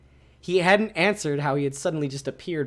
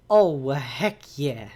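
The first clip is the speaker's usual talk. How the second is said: louder, slow, drawn-out cheer; excited; 4 dB louder, much slower than usual. Real, not acted. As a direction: cheer it out loud, stretching it.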